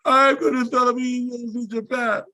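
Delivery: retold frantic repeat, pitched well up; pressured declaration. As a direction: race through it as ordered. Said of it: "Say it again".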